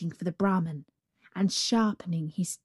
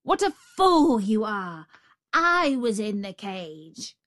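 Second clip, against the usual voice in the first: angry tiger; 2 semitones higher than usual. Acted. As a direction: snap at the fool. Tiger scolds.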